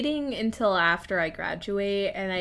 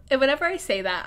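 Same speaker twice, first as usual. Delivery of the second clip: ordinary delivery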